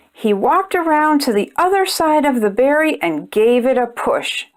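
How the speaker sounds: gentle storybook narration for little ones; measured picture-book read-aloud; reading to children. A narrator's reading. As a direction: read it like bedtime story time.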